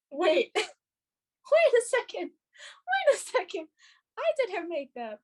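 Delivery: slow, high-pitched disbelief; re-enacting a drawn-out dawning shock; stunned realization. Learning that they did Kim's makeup, slow stunned realization.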